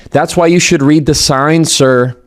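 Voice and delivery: smug, talking down to him; condescending. Retold or imitated. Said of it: "the tone came across was so condescending".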